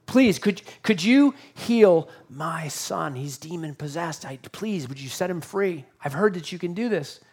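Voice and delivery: a mildly acted plea, softening midway; pleading. Desperate dad begs nine disciples to heal his son, mildly pleading. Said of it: "he's begging them".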